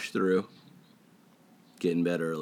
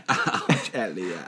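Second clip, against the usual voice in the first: E.T. voice; much slower than usual. Retold or imitated. Imitating E.T. from the film.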